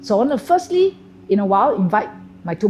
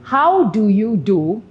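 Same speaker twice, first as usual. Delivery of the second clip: slow, measured How do you do; formal hello; 2 semitones higher, 4 dB louder, slower than usual. Shown as a demonstration. Teacher contrasts the formal greeting, slow and measured. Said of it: "is a formal hello".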